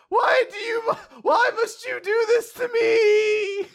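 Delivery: high, loud, slow crying whine; mock anguished wail. Yuiga begging the girl who teases him, mock wailing. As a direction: wail like a tormented victim.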